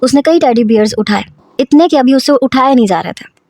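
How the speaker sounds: ordinary delivery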